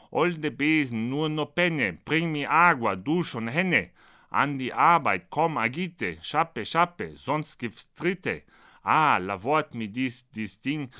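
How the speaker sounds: rhythmic, sing-song mock incantation; poem recitation. Apprentice orders the broom about in mixed-language verse, rhythmic chanting. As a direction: drive the nonsense verse along by its beat.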